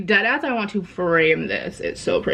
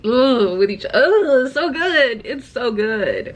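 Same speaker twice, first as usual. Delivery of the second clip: gushing; 5 semitones higher than usual. Real, not acted. Gushing over the book.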